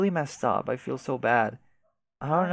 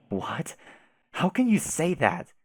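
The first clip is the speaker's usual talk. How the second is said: shocked protest; 4 semitones higher, slower than usual. Acted. Shocked reply to harsh claim.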